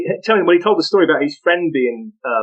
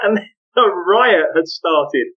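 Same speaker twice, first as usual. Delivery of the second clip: ordinary talk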